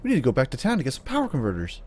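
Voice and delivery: lightly mocked whiny farm boy; quick, pleading kid impression; Luke. Farm boy wanting power converters, lightly mocked Luke.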